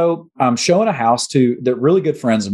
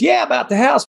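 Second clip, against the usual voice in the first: mimicked owner; 12 semitones higher than usual. Owner's reply, imitated.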